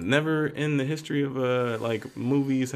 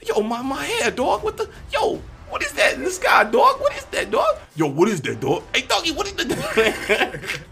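very high, loud laughing shouts; imitating Peter spotting something in the sky, very high and laughing; mock Peter; 13 semitones higher, 3 dB louder than usual. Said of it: "he's like".

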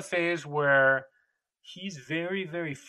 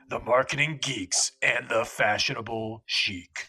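deep radio announcer take on the show name; 3 semitones lower than usual. Shown as a demonstration. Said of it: "Let me get back into the voice".

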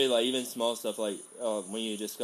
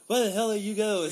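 imitating angry mom; 11 semitones higher, 6 dB louder than usual. Angry mom voiced in story.

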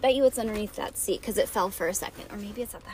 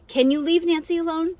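raised-pitch, pointed question; stern mom; 7 semitones higher, 6 dB louder than usual. A narrator's reading. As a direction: demand an answer from your child. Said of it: "She glared some more".

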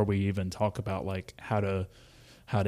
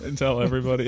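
put-on sweet old man voice; 4 semitones higher, 4 dB louder, faster than usual. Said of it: "this sweet old man voice".

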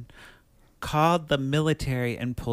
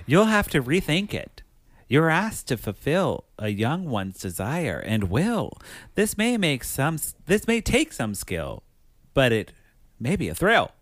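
sing-song rhyming riddle read; measured, swooping recital of a riddle; clue reading; 3 semitones higher than usual. Acted. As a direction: read it like a game clue, lilting up and down. Reads a rhyming game clue.

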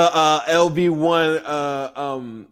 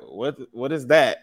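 slow, lower-pitched mock confusion; retold puzzlement; 4 semitones lower, 3 dB quieter than usual. Stranger asked about a team chant, slow and puzzled. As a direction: imitate a clueless stranger, slowly. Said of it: "and they'll be like".

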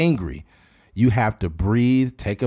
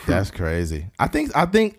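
normal talking voice

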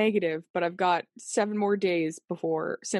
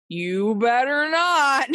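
slow warning; 4 semitones higher, 4 dB louder, much slower than usual. Retold or imitated. Mock warning to friend.

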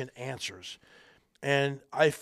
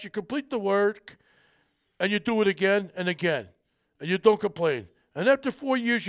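lightly voiced tough-guy mobster, louder at the start; a bad, half-hearted Stallone gangster lecture; Sylvester Stallone impression; 4 semitones higher, 4 dB louder than usual. Stallone's character lecturing on college degrees, lightly imitated. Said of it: "probably a bad Sylvester Stallone accent".

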